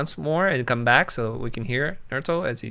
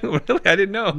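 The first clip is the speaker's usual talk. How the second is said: mock surprise; 8 semitones higher, 3 dB louder than usual. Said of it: "I was like".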